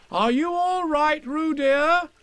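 high, slow worried mother calling; anxious call. Acted. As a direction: call out fretfully to her child. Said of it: "called Kanga anxiously".

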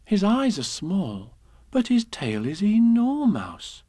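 lilting, sing-song rhyme reading; fond nursery-rhyme recital; poem reading. Acted. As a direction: read it to a child, playful. Reads a children's poem.

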